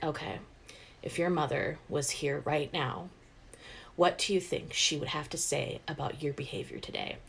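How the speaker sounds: lightly voiced hushed serious question; a hint of solemn dad. Dad holding mom's portrait, quietly questioning the kids.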